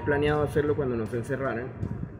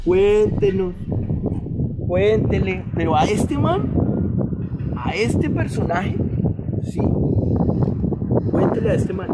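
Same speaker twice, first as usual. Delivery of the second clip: urging inner voice; 4 semitones higher, 4 dB louder than usual. Retold or imitated. Voicing an inner urge to confess.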